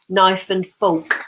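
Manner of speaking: knife and fork with Cockney "f" sounds; slow, mimicked Cockney pronunciation; mum's Cockney accent. Daughter teasing her mum's old speech, Cockney accent. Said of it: "we all make fun of her".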